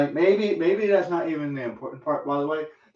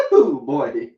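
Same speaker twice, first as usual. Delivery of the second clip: shocked whoop; 6 dB louder than usual. Real, not acted. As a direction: yelp at the heat. Tasting hot cayenne.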